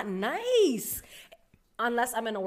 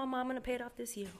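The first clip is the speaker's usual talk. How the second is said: calm reply; 3 semitones higher, 9 dB quieter, much faster than usual. Retold or imitated. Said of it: "I'm calm".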